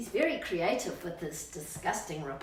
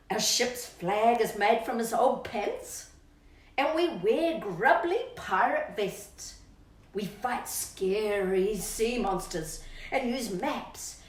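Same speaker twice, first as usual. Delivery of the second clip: bouncy rhyming read-aloud, louder on the gross bits; reading to children; 4 dB louder, slower than usual. Acted. Reading the birthday verse to Rocky, bouncy and relishing. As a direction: savour every disgusting detail for the child.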